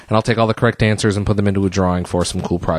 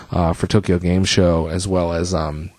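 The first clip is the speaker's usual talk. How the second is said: short of breath, tired talking; winded after a long break; 3 semitones lower than usual. Real, not acted. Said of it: "I'm pretty much out of breath right now".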